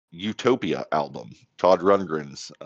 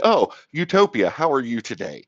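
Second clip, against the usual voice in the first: playful make-believe hello to a classmate; mock kindergarten greeting; 5 semitones higher than usual. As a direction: pretend to greet a child at kindergarten, pitch dropping after the first words. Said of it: "Here's, here's kindergarten".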